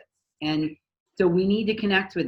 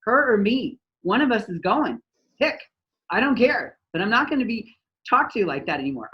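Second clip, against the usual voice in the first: mock ultimatum; 3 semitones higher than usual. Fed-up employee giving the manager's boss an ultimatum, indignant. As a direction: demand the boss pick, fed up. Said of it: "she'd go right over my head and be like".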